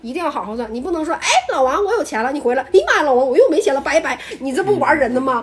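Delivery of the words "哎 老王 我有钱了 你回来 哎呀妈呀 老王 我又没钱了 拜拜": mock fickle caller. Acting fickle owner calling Wang.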